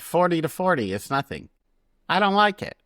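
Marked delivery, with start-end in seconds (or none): 2.1-2.8 high, pouty refusal; petulant whine. Real, not acted.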